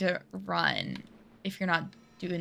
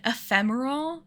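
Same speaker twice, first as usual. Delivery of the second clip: "Ephemeral?" repeated with a questioning rise; "Ephemeral?" rising, mildly bemused; puzzled echo; 4 semitones higher than usual. Shown as a demonstration. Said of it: "naming these places whatever they want".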